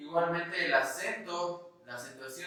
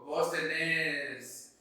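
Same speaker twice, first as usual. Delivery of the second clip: Argentine voseo; much slower than usual. Shown as a demonstration. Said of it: "no es lo mismo un hablante argentino".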